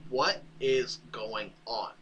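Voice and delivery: slow, measured dad voice; a hint of a stern dad. Batman catching his son in the act, lightly voiced dad voice. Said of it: "He's using his dad voice there".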